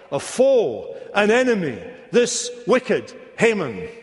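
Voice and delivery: Esther's bold charge, mildly acted; striking accusation. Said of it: "Now is the moment she must strike".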